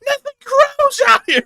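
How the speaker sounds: very high, loud squawk; hammed-up high-pitched outburst; exclaiming. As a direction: shriek it in comic exasperation. Mock outburst about barren Fruitland.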